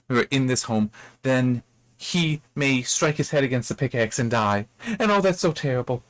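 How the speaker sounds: imagine the disaster in a mildly distressed voice; mock worry. Elsie alone in the cellar imagining her child's death, mock worry.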